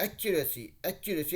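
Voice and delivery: एक्यूरेसी with the pitch dipping on the final "सी"; dip on the end. Shown as a demonstration. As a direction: let the voice drop on the last syllable of एक्यूरेसी. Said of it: "एक dip है वहाँ पे". (एक्यूरेसी बोलते समय आखिरी "सी" पर आवाज़ नीचे गिराइए)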